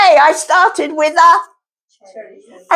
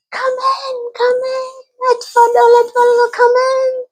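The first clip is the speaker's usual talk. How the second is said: higher, coaxing welcome; sweet high queen voice; 6 semitones higher than usual. Acted. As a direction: lure him in sweetly.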